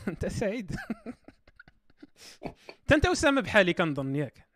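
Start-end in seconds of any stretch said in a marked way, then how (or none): 0.8-1.3 high laugh. Real, not acted. Laughs at friend's reply.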